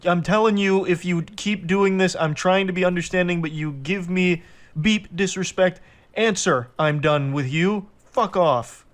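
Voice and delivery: imitating an angry boyfriend's tirade; demon comes out. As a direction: read his texts like a raging demon. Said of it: "now the demon comes back out again".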